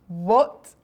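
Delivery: loud, shocked "What?"; storybook shout. A narrator's reading. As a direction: shout it out in disbelief, as narrator. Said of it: "we all shout".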